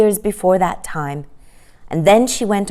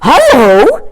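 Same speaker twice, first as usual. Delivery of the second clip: a bright excited call, louder; 8 semitones higher, 10 dB louder than usual. Acted. Michael at the window spots something, excited. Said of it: "said Michael excitedly".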